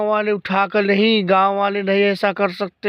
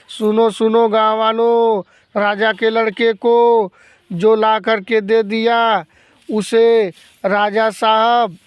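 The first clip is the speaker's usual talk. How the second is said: town crier. Acted. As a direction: call it out to the whole village. Town crier beats the drum.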